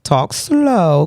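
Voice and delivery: slow down on purpose; slow, self-restrained pace; deliberately slow. Real, not acted. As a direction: draw the words out slowly. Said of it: "I'm gonna try to talk".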